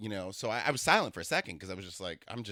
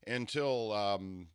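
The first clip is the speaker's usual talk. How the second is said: lightly put-on slow announcer voice; imitating his date; 2 semitones higher, much slower than usual. Trying to imitate her date's explanation, lightly mimicked formal cadence. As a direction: stretch it out like a thoughtful announcer. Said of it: "I'm trying to imitate him".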